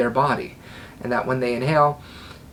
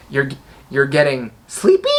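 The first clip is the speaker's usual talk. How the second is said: sleepy said with an upward lilt; rising question tone; 4 dB louder than usual. Shown as a demonstration. Hypnotist showing a wrong command, rising tune. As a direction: let it float up like a doubt. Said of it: "Command tone up?".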